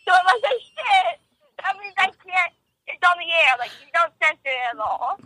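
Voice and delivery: tinny speakerphone voice. Real, not acted. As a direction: voice coming through a phone speaker. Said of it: "You're on speaker and on air".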